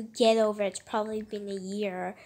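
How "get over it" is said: harsh snap. Acted. Mocking a sad friend.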